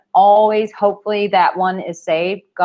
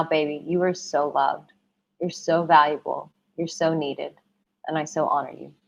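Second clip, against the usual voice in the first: soft and tender; 3 semitones lower, 6 dB quieter than usual. Real, not acted. Soft affirmation of love.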